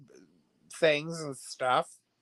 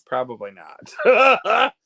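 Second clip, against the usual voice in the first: slow emphatic; 4 semitones higher, 7 dB louder, much slower than usual. Real, not acted. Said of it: "Do I think it was a coincidence?".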